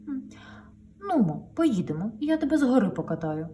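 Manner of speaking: coaxing gentle offer; gently. Acted. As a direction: sweet-talk the trailer. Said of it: "каже лагідно". (лагідно вмовляє)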